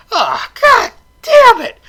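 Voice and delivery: high, loud, fake-exasperated cry; hammed-up groan of annoyance; mock frustrated outburst. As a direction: throw up your hands and curse. Groaning at the plot dragging on.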